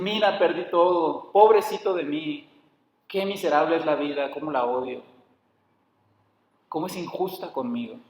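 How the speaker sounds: a hint of poor-me whining that sinks away; mock self-pity. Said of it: "llanto de sentir lástima por sí mismo". (lamento autocompasivo fingido, que se apaga)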